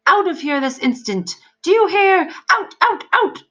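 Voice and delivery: very high, loud shriek rising to a peak; screaming demon. A narrator's reading. Demon screaming at the soldier to leave. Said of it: "screamed the demon".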